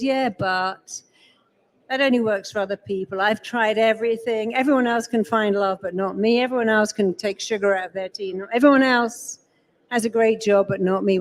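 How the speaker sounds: a lightly voiced self-pitying moan; a hint of a defeatist whine; whiny ugh voice. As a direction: mimic the inner voice that always says yes but. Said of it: "which I call the ugh voice".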